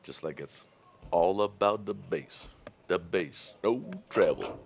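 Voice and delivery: put-on slow, creaky old-timer drawl; lightly voiced old man. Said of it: "You've never sounded more like an old man".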